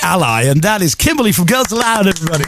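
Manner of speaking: radio DJ presenter voice; bright upbeat radio host. Acted. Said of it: "That doesn't even sound like you, that voice".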